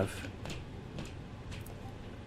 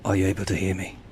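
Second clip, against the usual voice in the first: army voice; 4 dB louder than usual. Acted. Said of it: "What's with your voice? Sounds a bit weird".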